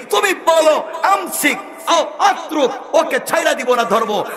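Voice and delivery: urgent calling shout. Acted. Angel of death urgently calling God about the singer. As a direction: rush the news up to God.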